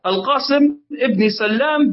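سلام with the lam doubled, sal-lam. Shown as a demonstration. Teacher corrects a name for students, سلام said with doubled lam. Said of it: "بتشديد اللام".

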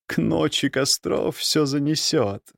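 confident. A narrator's reading. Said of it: "уверенно сказала она".

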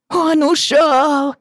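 high, slow, loud wail; child wailing. Acted. Little girl wailing to her father, high and slow. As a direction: stretch out the cry in despair.

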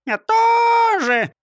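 very high, slow squeaky bird voice; parrot chirp. A narrator's reading. Parrot joining in, chirping high. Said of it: "прощебетала Клара".

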